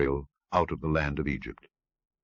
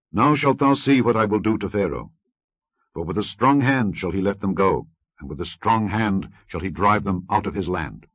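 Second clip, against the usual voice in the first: raised, loud solemn proclamation; voice of God; 2 semitones higher, 4 dB louder than usual. Acted. The Lord declares his power to Moses, loud solemn. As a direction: proclaim with divine weight.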